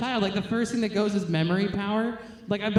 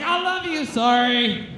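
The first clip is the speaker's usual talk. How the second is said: much higher blurt, then a sheepish apology; blurted confession; 5 semitones higher, 3 dB louder, slower than usual. Retold or imitated. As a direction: let it slip, then take it back fast. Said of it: "I was like".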